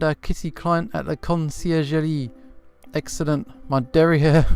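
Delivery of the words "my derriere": mock French. Mock French word, then explains.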